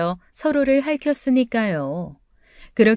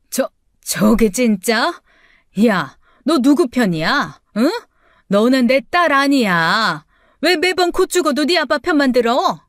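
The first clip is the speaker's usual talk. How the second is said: outraged mother; 3 semitones higher, 4 dB louder than usual. Acted. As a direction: sputter with disbelief at the daughter.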